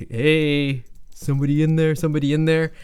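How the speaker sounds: a held, sing-out call to whoever is inside; man calling into the tent. Acted. Hooded man calling into the campers' tent, lightly acted call. Voicing men outside the tent.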